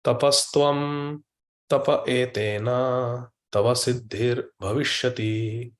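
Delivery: solemn chant of a sacred line; slow scriptural recitation. Acted. Preacher reciting the scripture verse to his listeners, slow and solemn. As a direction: intone the Sanskrit verse slowly, word by word.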